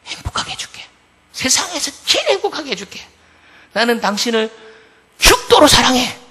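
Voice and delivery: retold proposal swelling with passion; fervent love vow. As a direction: start hushed, build to a loud high declaration. Acting out his pre-marriage vow.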